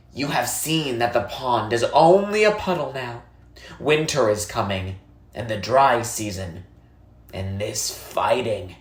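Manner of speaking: a lightly voiced old woman, calm and grave; old woman, somber. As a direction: explain the dry season to the boy gently.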